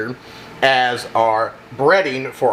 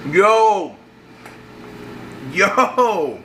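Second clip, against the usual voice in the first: excited; 7 semitones higher than usual. Real, not acted. Reacting to hot tasty bite.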